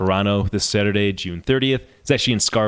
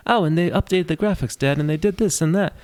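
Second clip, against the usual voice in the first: put-on high-pitched British child's voice; British kid; 8 semitones higher than usual. British kid talking to his dad, high childlike British voice. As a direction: imitate an eager British kid chattering away. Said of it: "like, British kid".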